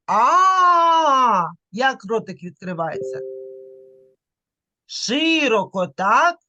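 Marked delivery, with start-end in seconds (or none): 0.1-1.5 long A with the mouth opened wide. Shown as a demonstration. Teacher shows how the mouth opens, long loud A. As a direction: open the mouth wide and hold A. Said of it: "А ну подивись, як я говорю".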